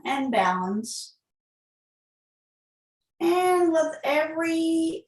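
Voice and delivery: calm, unhurried yoga-teacher guidance; guided breathing. Real, not acted. Yoga teacher settling the class into breathing, guided meditation. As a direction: lead them gently through the breath, with long pauses.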